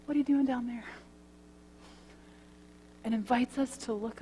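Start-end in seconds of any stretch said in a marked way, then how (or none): 0.0-0.8 gentle invitation. Acted. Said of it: "It says gently".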